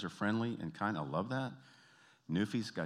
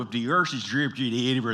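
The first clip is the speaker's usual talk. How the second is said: imitated Newfoundland saying; 3 semitones higher, 8 dB louder than usual. Imitated local saying, repeated.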